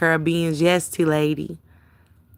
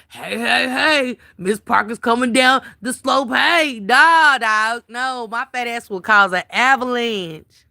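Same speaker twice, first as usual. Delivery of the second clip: Miss Parker voice; 4 semitones higher, slower than usual. Pretend. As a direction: yell like a wild skier barrelling downhill. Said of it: "I'll be up there like".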